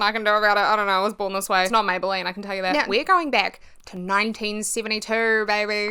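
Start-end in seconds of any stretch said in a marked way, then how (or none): 2.7-5.9 excited. Real, not acted. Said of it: "I don't know why I'm so excited".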